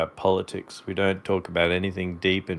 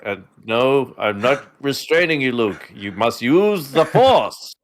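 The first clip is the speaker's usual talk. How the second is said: parody Obi-Wan. Acted.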